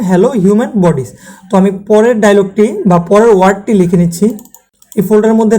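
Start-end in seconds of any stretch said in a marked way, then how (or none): 0.1-1.1 very slow, evenly spaced words; drawn-out robotic greeting; slow text-to-speech imitation. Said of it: "আপনারা শুনতে পেয়েছেন".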